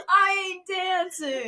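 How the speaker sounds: slow, stretched mock Brooklyn accent; aggressive Brooklyn accent. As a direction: refuse stubbornly in put-on Brooklyn. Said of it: "the aggressiveness of Harry".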